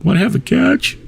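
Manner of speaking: high, tearful mock film voice; choked-up movie quote. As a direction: quote it as if about to bawl. Acting out tearjerking film line.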